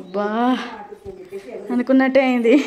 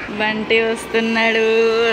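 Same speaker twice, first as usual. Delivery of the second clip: very slow, stretched-out words; drawn-out announcing; 4 dB louder, much slower than usual. Real, not acted. Watching Bunty come out of school, drawn-out announcing. Spotting the child coming out.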